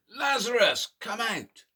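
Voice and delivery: loud call that fades at the end; shout. Shown as a demonstration. Teacher leading toddlers in a first group shout, moderately loud. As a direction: shout it with the toddlers, not yet full force. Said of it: "shout that even louder".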